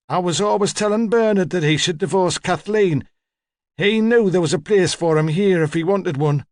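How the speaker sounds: put-on imperious old woman. Old woman receiving a detective at home, imperious. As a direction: hold forth in a high elderly voice.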